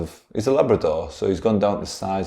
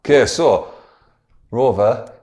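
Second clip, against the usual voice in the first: higher, louder put-on scientist voice; 6 semitones higher, 8 dB louder than usual. Scientist calling his dog Rover over, loud and high. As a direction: call the dog over in character. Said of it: "I didn't put an accent on".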